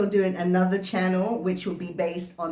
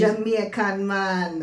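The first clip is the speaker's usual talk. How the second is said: put-on Jamaican accent; slower than usual. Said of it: "your background is".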